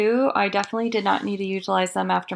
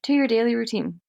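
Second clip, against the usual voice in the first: yawning. Real, not acted. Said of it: "yawning your way through this ad".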